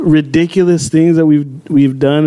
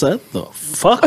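disgusted; 4 dB quieter, slower than usual. Retold or imitated. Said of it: "kinda disgusted".

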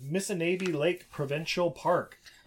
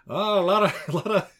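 higher, louder hammed-up French Canadian accent; mock French Canadian accent; 6 semitones higher, 5 dB louder than usual. Quebec character on pretty girls back home, mock French Canadian accent. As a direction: ham up French Canadian, breaking into laughs. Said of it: "like, a French Canadian backstory or whatever".

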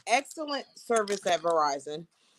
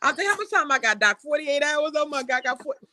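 higher, hammed-up panicked rush; mock panic; 6 semitones higher than usual. Patient panicking at the doctor over her diagnosis, mock hysterical. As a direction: play the frantic dying patient, half joking. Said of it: "So I started crying".

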